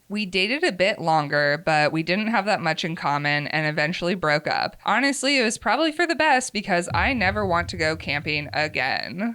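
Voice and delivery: measured, expressive first-person storytelling; story narration. A narrator's reading. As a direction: read a confessional story aloud with lively emphasis. Reads end of the story.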